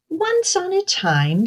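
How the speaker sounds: high, lilting fairytale opening; storytelling opener. A narrator's reading. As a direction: open a children's tale up high.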